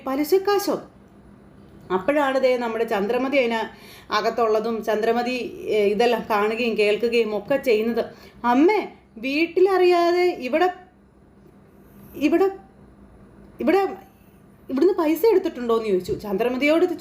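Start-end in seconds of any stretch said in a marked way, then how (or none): 0.1-0.8 startled echo of the word, pitched up; shocked. Acted. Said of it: "Revathi ഇങ്ങനെ ഞെട്ടി". 8.5-15.8 she can't bring herself to ask it; hesitant upset question. Acted. Daughter hesitantly confronting mother.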